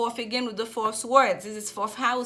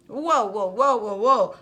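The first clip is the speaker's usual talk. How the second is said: excited whoas; 8 dB louder, slower than usual. Real, not acted. Excited at the cards drawn.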